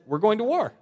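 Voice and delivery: loud, high declaration of war; mock war cry. Ephraim's men to Jephthah, a loud declaration of war. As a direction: shout it out like a tribe picking a fight. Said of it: "And they said".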